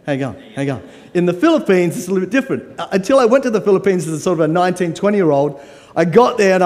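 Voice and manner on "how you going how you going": relaxed, low Australian "How you going?" twice; Australian greeting. Shown as a demonstration. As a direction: model the Aussie hello for the crowd. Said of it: "can you say hello".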